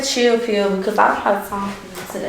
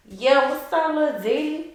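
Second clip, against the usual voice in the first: ratchet persona; 4 semitones higher than usual. Pretend. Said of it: "Why are you being so loud?".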